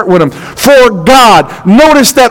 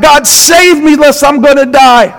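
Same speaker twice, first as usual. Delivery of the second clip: desperate cry; 5 semitones higher than usual. Retold or imitated. Preacher reliving desperate cry to God.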